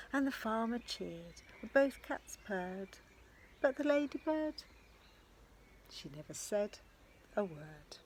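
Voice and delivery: lively picture-book storytelling; sing-song read-aloud rhythm; reading to children. A narrator's reading. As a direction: read it with bounce for little ones. Final refrain to children.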